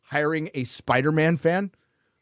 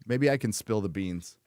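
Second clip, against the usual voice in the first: quiet aside; 4 semitones lower, 5 dB quieter than usual. Real, not acted. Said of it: "Maybe later in the show".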